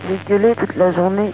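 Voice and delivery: raspy, worn-out voice; hoarse voice, said again. Real, not acted. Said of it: "je la vois cassée".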